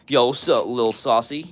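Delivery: low, cool greeting; like you mean it. Shown as a demonstration. Streamer greeting Lil Saucy in chat, said like they mean it. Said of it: "I'll say it like you mean it".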